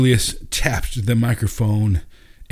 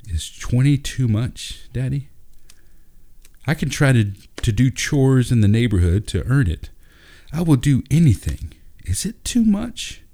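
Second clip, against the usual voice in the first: put-on high, eager child pleading; pleading boy; 5 semitones higher than usual. A narrator's reading. Ben begging his dad to afford the play, high child voice. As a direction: beg like a hopeful kid.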